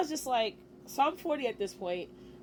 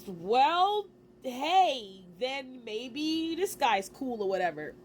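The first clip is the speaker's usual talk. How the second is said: hyped up; 3 semitones higher, much slower than usual. Retold or imitated. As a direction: retell your own sudden hope, a little excited. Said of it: "I got a little bit hyped".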